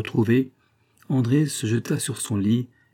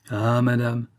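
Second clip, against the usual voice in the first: a touch of tears, murmured; tearful murmur; slower than usual. A narrator's reading. The count murmuring to his wife, lightly tearful. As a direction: murmur as if holding back tears. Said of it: "murmura-t-il avec une voix pleine de larmes".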